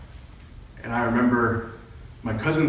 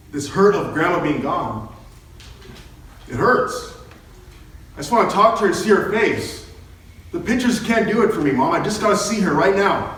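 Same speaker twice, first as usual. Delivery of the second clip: aching plea; 5 semitones higher than usual. Retold or imitated. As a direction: beg your mother, voice climbing. Pleading with his mother.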